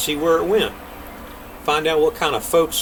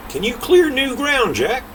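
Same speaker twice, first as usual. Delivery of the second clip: voiced king; 11 semitones higher than usual.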